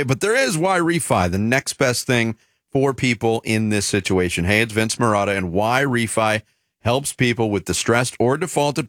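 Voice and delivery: smooth radio sponsor read. Acted. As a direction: sell it like a host endorsement. Reads sponsor ad.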